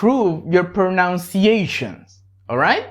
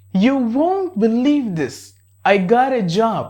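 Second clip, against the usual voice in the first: excited news; 3 semitones higher than usual. Shown as a demonstration. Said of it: "you can make that guy excited".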